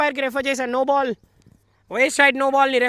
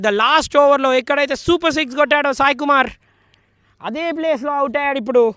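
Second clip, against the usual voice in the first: excited cricket commentary; 3 semitones higher, 6 dB louder, faster than usual. Real, not acted. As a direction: call out the irony of the dismissal. Recalling the six after the wicket.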